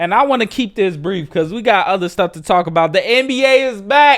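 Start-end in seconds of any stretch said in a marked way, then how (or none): 2.9-4.2 high, loud, hyped announcer-style delivery. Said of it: "Let's go".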